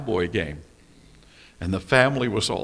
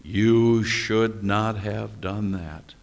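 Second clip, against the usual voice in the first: slow conscience voice; 3 semitones lower, much slower than usual. Pretend. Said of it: "And that little voice said".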